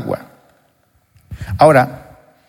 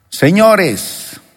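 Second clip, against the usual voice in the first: a raised, higher call to the crowd; 6 semitones higher than usual. Retold or imitated. Jesus calls out to the people, a mild raised call. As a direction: call out to gather them. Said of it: "les grita en alta voz".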